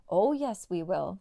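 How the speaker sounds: dog shouting back at the bandit; shouted back. Acted. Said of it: "Trapper shouted back".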